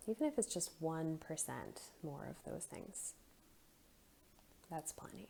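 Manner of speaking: soft breathing guidance, trailing into near whisper; guided meditation. Acted. Guide letting listeners settle at their own pace, soft meditation voice. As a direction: leave room for breaths, gently and quietly.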